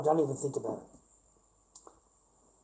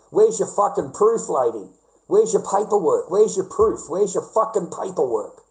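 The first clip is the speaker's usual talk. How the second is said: imagined angry retort; 3 semitones higher, 3 dB louder than usual. Retold or imitated. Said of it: "in my mind, it's like".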